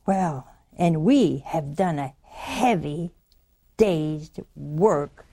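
slow, low, laboured complaint; acted-out weary grumble; grumbling. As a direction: drag out each word as an aggrieved worker. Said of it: "They grumbled".

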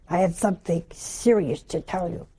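low, quiet and serious; grave. Retold or imitated. A wife phoning the priest with news, grave. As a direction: announce something serious in a hushed, low voice.

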